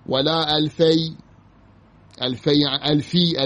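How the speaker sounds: formal, projected Arabic reading; careful recitation with full endings; reading a textbook aloud. Real, not acted. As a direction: announce each rule as written. Reads the grammar text aloud.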